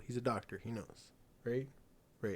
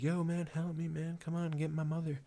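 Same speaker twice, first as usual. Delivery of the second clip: Butch; 5 semitones higher than usual. Retold or imitated. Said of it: "and Butch is like".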